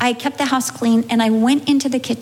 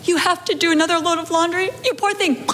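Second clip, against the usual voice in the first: pitying voice; 5 semitones higher than usual. Retold or imitated. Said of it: "Every time it's like".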